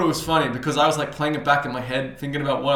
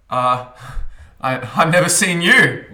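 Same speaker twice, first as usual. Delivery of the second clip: stammering; 3 semitones higher, 6 dB louder, slower than usual. Retold or imitated. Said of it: "I'm fucking stuttering".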